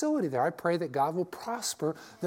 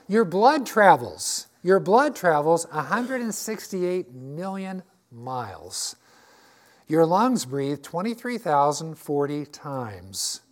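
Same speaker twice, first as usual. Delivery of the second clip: slow emphatic; 3 dB louder, slower than usual. Acted. Preacher stresses amazing facts.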